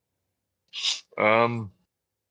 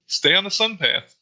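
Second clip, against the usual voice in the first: slow, higher sing-song welcome voice; mock cheery sign; 6 semitones higher, 3 dB louder than usual. Host mocking tourist signs in slow cheery tone. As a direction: sell the sunny tourist slogan, slowly.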